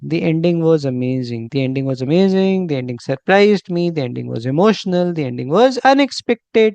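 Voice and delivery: slow, deliberate model sentences, rising at the end; slow teaching demo. Shown as a demonstration. Teacher slowly models phrases for students to repeat. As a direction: lay out each phrase slowly for repetition. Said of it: "ऐसे बात करा करो ना".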